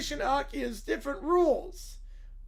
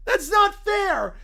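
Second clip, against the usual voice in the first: whiny protest; 5 semitones higher, 4 dB louder, much slower than usual. Acted. Kids kicked out, protesting.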